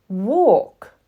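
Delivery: high, loud chanting cries; loud high repeated call; chorus of dolls crying out. Acted. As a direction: shout it like eager little dolls. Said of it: "cried the other dolls".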